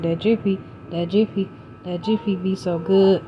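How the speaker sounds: soft, chanting the name with rising ends; excited sing-song. Real, not acted. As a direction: croon it like a little cornbread anthem. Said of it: "I got excited just looking at the replay".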